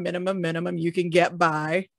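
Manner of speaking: ordinary delivery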